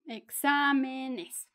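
"Exámenes" said slowly, stressed on the "xá". Shown as a demonstration. Teacher showing learners the accent in the plural, slow stress on the A. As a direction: stretch "Exámenes" out, leaning on the accented A. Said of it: "lleva acento en la A".

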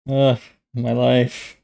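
slow, drawn-out groan of despair; dramatic sigh. Real, not acted. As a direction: sigh it out like all is lost. Groaning over a blunder.

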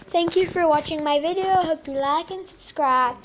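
hoarse, croaky outro. Real, not acted. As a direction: talk through a croaky, tired voice. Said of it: "sorry for my croaky voice".

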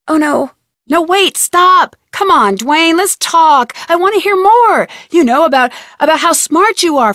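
wait, stop, keep him talking; alarmed stalling. Acted.

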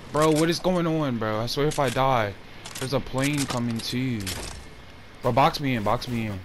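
hyped gamer bro. Real, not acted. Tense fight, frustrated calling out.

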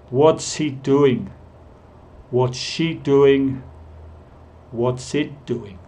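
"What's" as one syllable, slow model sentences; careful slow demo of contracted "What's". Shown as a demonstration. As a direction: reduce is to the s of "What's". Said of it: "siempre estoy reduciendo el verbo be".

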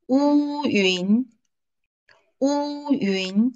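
乌云 as wu high level then yun rising; first tone then rising second tone on 乌云; wuyun. Shown as a demonstration. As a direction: Mandarin 乌云 read slowly. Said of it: "The first one is read".

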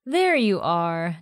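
slow playful tease; teasing. Acted. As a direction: draw it out teasingly. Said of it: "Janae teased".

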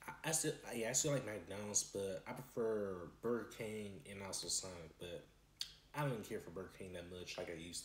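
pausing to chew food; talking while chewing. Real, not acted. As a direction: mouth partly full. Seen 3: holds small food bites to mouth, chews between phrases while talking.

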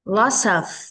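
"Lots of" run together as one word; linked sounds. Shown as a demonstration. Teacher shows children linking, "Lots of" joined up. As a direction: carry the s of "Lots of" into the vowel. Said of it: "Các con có thể nối âm qua".

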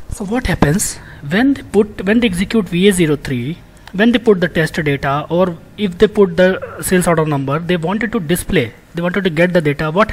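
pushing the volume up to make a point. Real, not acted. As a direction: project it to the back of the room. Lecturer raises voice explaining.

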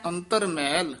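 ਅੰਤਰ ਮੈਲ set apart; brief halt after. Shown as a demonstration. Teacher marking a phrase break, halt after ਮੈਲ. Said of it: "ਇੱਥੇ ਠਮਕ".

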